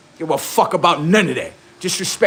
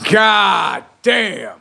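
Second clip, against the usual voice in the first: shouted exclamation; 4 semitones higher than usual. Acted. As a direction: shout it in disbelief.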